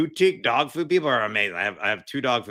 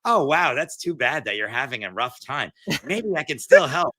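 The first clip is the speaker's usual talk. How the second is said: fake sympathetic bot; 4 semitones higher, 3 dB louder than usual. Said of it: "I don't want them to be like".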